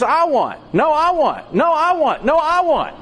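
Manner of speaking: a tug of war of whiny demands; escalating squabble. Acted.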